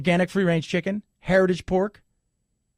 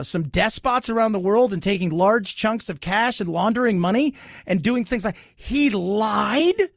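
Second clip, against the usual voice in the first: sarcastic shock. Acted. Sarcastic reaction to news clip.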